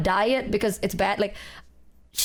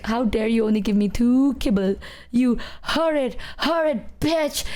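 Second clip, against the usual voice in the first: imagined indignant dog. Pretend. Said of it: "She didn't say that".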